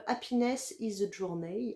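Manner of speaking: English in a heavy French accent; slow English title with a clumsy French accent; bad English accent. Real, not acted. Reading a scrub's name to viewers, poor English accent.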